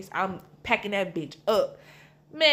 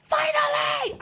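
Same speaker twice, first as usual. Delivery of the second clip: high, slow, drawn-out excited yes; a much higher, slow delighted cry of relief; gleeful relief; 4 dB louder, slower than usual. Retold or imitated. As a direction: savour the freedom, stretch it out. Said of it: "I was literally so excited".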